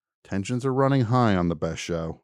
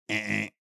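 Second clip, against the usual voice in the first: harsh error buzz; 8 dB quieter than usual. Retold or imitated. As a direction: imitate a rejecting beep. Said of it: "I step up".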